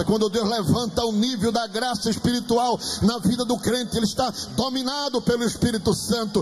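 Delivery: insistent, climbing sermon crescendo; fervent preaching. Real, not acted. Preacher declaring victory over the devil to believers, fervent preaching.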